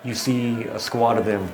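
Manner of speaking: measured scene-setting with pauses; game master narration. Acted. Game master describes chaos outside to players, scene-setting narration. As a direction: narrate the scene in deliberate, spaced-out phrases.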